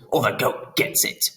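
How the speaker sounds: a mild Chicago gangster bark; light hint of a Chicago mobster. Pan threatening with a knife, mild Chicago gangster bark. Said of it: "he barked in a Chicago gangster voice".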